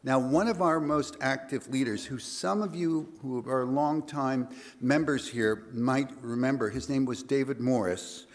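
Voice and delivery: hoarse, gravelly voice. Real, not acted. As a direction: voice worn rough from singing. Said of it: "if I sound a little gravelly".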